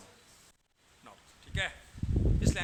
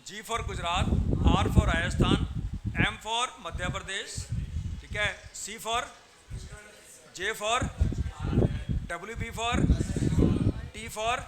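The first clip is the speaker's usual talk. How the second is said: slow repeat; slower than usual. Shown as a demonstration. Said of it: "एक minute, दोबारा में".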